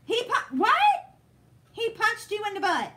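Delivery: high, loud burst of disbelief, pitch shooting up; can't believe what she just read, voice jumping way up; shocked disbelief. Real, not acted. Reading a viewer's story about her son, stunned and loud. Reacting to a shocking chat comment.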